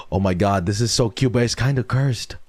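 gushing over a puppy that looks cute and cursed; excited squeal. Real, not acted. Streamer gushing to chat over a puppy photo, excited.

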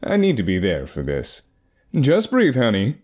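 lightly snooty urgent voice; a hint of a posh urgent husband. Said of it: "this snooty voice".

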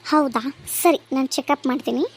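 calm doctor greeting the patient; doctor asking. Acted. (ವೈದ್ಯರ ಧ್ವನಿ)

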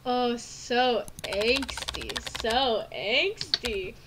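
drawn-out tease. Real, not acted. Savouring a moody line.

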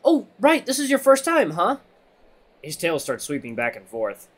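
high, loud and eager; excited friend. A narrator's reading. Redline realizing it is Xander's first time, excited. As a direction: let the newcomer in on the fun, excitedly.

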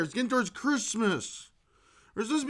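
quiet muttered repeat. Acted. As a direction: drop the repeat right down. Repeated much softer.

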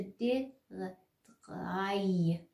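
short bare "د" and "غ", then full "قای"; sounding out consonants. Shown as a demonstration. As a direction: spell "د، غ، قای" out by sound, pausing between.

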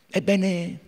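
usual speaking voice

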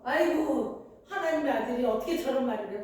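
quick, mildly indignant huff; acted anger. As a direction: protest as if offended, a touch hurried. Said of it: "화를 벌컥 내며 갔을 거예요". (발끈하는 척)

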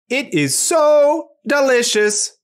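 high, slow robot delight; very happy, loud. Shown as a demonstration. Robot showing it is very happy, loud voice. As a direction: stretch it out high with joy. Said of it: "loud voice to show that it is very happy".

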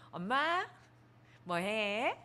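put-on high, sing-song baby talk to her mother; cutesy daughter voice. Daughter dancing to cheer up her elderly mother, cutesy high coaxing. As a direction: coax her like a playful little girl, stretching the last words slowly. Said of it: "막 이러면서 제가 앞에서 막 이렇게 춤춰주고".

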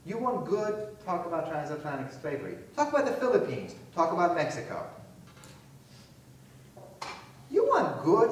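mock rant, jabbing; heated retort. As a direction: throw the question back in their face.

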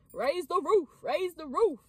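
cheering chant; little party chant; excited. Real, not acted. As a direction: celebrate out loud. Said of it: "when I get excited".

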